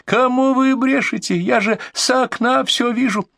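high, slow furious yell; shrieking. A narrator's reading. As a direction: keep shrieking at them. Furious caller yelling.

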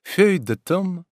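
put-on high, lively young woman voice; Ольга, звонкая девушка. A narrator's reading. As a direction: play Olga pleading playfully. Olga's voice in reading. (звонкий голос юной Ольги)

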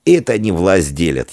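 plain reading voice

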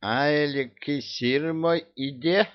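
выше и медленно, изумлённый вопрос; ахни, потеряв эликсир; ахнул. Acted. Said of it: "ахнул Кощей". (Кощей ахает о пропаже)

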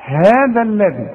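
"هذا الذي" slowly, each dhal between the teeth; tongue-out dhal. Shown as a demonstration. Teacher demonstrating tongue out on dhal, slow careful recitation. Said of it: "هطلع لساني".

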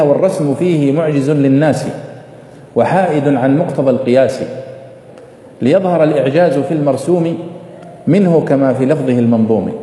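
measured recitation of verse; poem recitation. Shown as a demonstration. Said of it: "فيقول فيها". (إلقاء شعري هادئ)

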